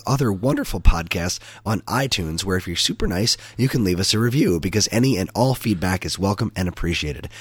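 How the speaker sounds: lightly sultry ad read; a hint of a sultry announcer. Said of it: "Use that sultry voice for one last time".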